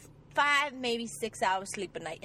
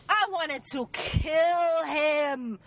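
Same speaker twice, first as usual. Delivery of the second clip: slow, loud and fed-up; real outrage, slow and loud; loud exasperated; 3 semitones higher, 3 dB louder, much slower than usual. Real, not acted. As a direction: drag each word out in outrage.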